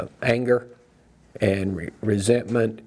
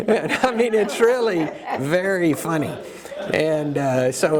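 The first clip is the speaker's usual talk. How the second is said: laughing; 5 semitones higher than usual. Real, not acted. Laughing after telling the joke.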